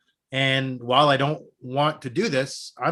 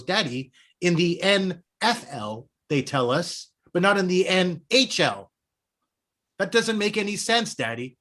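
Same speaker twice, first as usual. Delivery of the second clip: put-on a light child's voice, higher in the middle; imitating his young son; 4 semitones higher than usual. Father to listeners, imitating son's puzzled protest. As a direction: echo his seven-year-old word for word. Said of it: "intonation for intonation".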